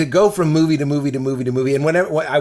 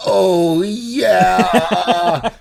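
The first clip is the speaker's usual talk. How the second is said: mock smug leader; 6 semitones higher, 3 dB louder, much slower than usual. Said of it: "of course I was like".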